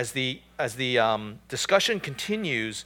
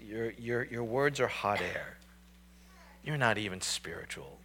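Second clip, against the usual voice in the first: arrogant; 4 semitones lower, 9 dB quieter than usual. Retold or imitated. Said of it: "we hear anger and we hear arrogance".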